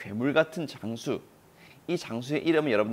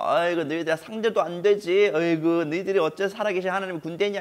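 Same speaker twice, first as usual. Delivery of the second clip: mocking taunt; 3 semitones higher than usual. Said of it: "이렇게 소리 지르면서".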